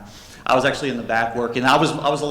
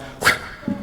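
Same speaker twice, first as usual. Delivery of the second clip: short voiceless smash noise; imitated hammer smash. Husband smashing diamonds with hammer, imitated smash. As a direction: make a quick mouth-made impact sound. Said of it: "He takes the hammer and goes".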